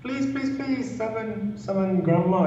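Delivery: high, soft pleading mum voice; imitating a mum begging softly. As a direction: beg like a worried mother, high and hushed. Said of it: "So she was like".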